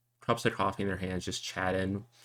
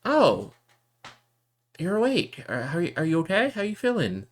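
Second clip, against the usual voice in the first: higher, louder, rushed concern; startled worry; 10 semitones higher, 5 dB louder than usual. Acted. Sister seeing her brother awake, startled and worried. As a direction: jump up worried and fire off questions.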